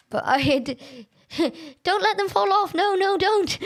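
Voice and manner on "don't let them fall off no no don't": high, urgent protest; amused high-pitched alarm; urgent pleading. Real, not acted. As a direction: plead with them in a raised pitch. Pleading as racers fall off.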